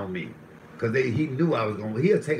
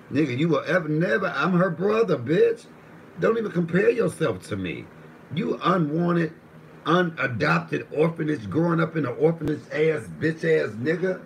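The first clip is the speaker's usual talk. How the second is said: raised, higher voice, slowing on the insults; heated comeback; 5 semitones higher, 3 dB louder than usual. Retold or imitated. Sister's brother insulting him, raised and heated. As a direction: lay into him with rising heat.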